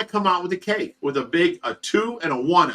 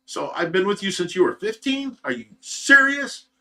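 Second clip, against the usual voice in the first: shocked disbelief; 5 semitones higher than usual. Retold or imitated. Shocked at girlfriend's real age.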